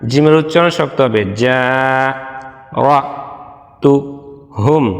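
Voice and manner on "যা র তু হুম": slow, each Quranic syllable said apart with pauses. Shown as a demonstration. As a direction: break the verse into separate syllables. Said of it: "ভাঙ্গা ভাঙ্গা রীতিতে". (ভাঙ্গা ভাঙ্গা, ধীরে আলাদা আলাদা অক্ষরে)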